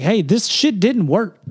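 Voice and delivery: high, slow, put-on whiny complaint; griping to the teacher about the doll; imitating his teen self complaining to his teacher. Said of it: "I was like".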